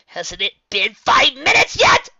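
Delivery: high, loud, slow impatient demand. A narrator's reading. Tracy to the bear, demanding impatiently. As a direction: push it out like an impatient unicorn. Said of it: "Tracy demanded".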